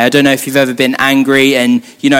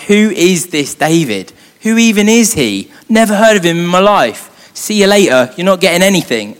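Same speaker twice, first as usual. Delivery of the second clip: dismissive refusal; 3 semitones higher than usual. Retold or imitated. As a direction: act out a haughty refusal. Acted rejection of David's messengers.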